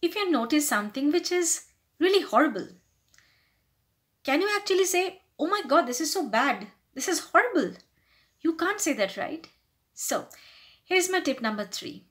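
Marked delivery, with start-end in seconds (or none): 5.4-7.8 appalled, mildly hammed-up reaction; negative emotion blurted. Shown as a demonstration. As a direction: blurt out your disapproval. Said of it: "your negative emotion comes out".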